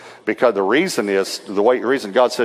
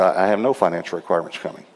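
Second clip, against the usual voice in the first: fast, matter-of-fact reply; quick ready answer; 3 semitones lower, 3 dB quieter, faster than usual. Retold or imitated. Preacher answering a pastor about fees, quick and matter-of-fact. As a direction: rattle it off quickly.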